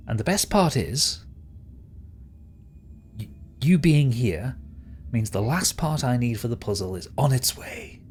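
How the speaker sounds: lightly voiced gloating schemer; self-satisfied villain. Villain tells the prisoner of his plan, mildly gloating. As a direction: savour the plan with theatrical pauses.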